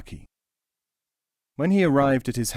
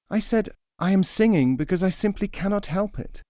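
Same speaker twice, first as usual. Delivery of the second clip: high plaintive bird voice; small and hurt; forlorn nightingale; 9 semitones higher than usual. Acted. First nightingale tells his friend, higher and plaintive.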